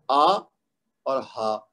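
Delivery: آ and ہا from the lowest throat near the chest; low throat آ then ہا; deep throat sounds. Shown as a demonstration. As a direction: hamza and ha demo. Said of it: "سینے کے ساتھ جو ملتا ہے گلے کا حصہ".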